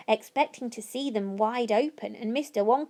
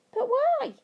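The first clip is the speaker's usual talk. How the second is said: much higher, startled question; astonished; 14 semitones higher than usual. A narrator's reading. Charlie shocked by the workers leaving, astonished. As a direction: gasp out the question.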